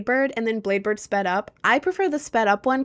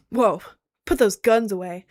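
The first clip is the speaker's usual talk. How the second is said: louder, playful warning as others; mock alarm; 4 dB louder than usual. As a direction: call it out in pretend awe. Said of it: "is what they say to me".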